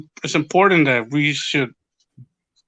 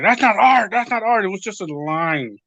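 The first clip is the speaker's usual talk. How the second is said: higher-pitched mock indignation; pissed off; 3 semitones higher than usual. Friend dismissing the museum's art, mildly pissed off. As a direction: imitate a miffed friend protesting. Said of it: "like, really pissed off".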